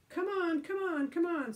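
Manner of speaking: high, loud impatient urging. Acted. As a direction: hurry him along. Alan urging Billy impatiently.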